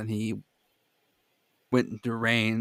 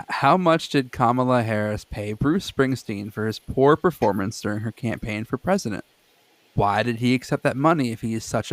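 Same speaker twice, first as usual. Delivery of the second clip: emphatic read-aloud of an all-caps post, slightly raised. Retold or imitated. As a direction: read someone's indignant post word by word, mildly punched. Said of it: "This is all in, in caps".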